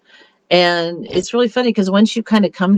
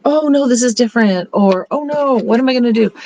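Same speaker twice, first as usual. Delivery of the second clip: mock panic; 4 semitones higher than usual. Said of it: "instead of saying, freaking out".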